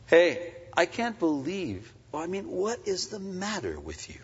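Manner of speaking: put-on exasperated parent scolding the kids, rising to a shout; indignant scolding. Dad scolding kids for repeating a mistake, indignant. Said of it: "this kind of indignant, "I can't believe it," condescending attitude".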